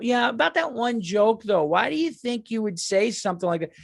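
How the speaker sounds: whiny fan quizzing the comic, imitated lightly; mock fan. Imitating a fan questioning him about a joke, mock whiny. Mocking fans who confront him.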